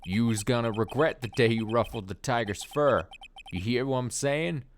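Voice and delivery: loud tough Brooklyn thug; Brooklyn gangster. Acted. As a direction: bark it like a loan shark. Tigre voice.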